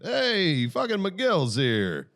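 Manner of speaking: high, loud drawn-out greeting; calling out. Real, not acted. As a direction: holler a long, excited-sounding hey. Calls out as someone arrives.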